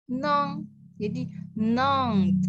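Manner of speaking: nong, the syllable where the pitch goes up; rising on nong. Shown as a demonstration. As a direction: lift the voice on nong, slowly. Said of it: "naiknya di yang".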